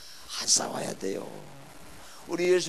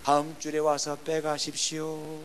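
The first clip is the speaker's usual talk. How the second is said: slow, composed retort after a firm address; composed one-line reply; 3 dB louder, slower than usual. Retold or imitated. Preacher replies to an abusive pastor, composed. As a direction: let the abuse pass, answer calmly. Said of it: "다 듣고 있다가 딱 한마디".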